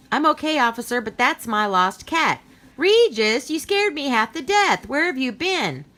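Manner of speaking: high, loud flustered relief; half scold, half hug the lost cat; relieved, scolding owner. Acted. Woman relieved finding lost cat.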